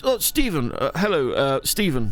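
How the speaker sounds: mock-posh greeting from a strict army dad; lightly imitated posh dad; dad's posh voice. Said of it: "in his posh voice".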